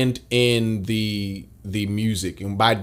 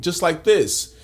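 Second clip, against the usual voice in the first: chin-up voice; 6 semitones higher, slower than usual. Shown as a demonstration. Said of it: "how my voice changed just from doing this versus this".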